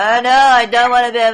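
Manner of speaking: mocking imitation. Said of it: "You sound like a fucking Yeti".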